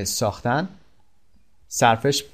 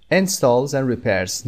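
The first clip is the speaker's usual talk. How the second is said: slow model reading; much slower than usual. Shown as a demonstration. Teacher reads the definition to learners, very slow and careful. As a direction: read "Builds or repairs homes" very slowly, word by word. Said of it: "teacher repeats model phrase".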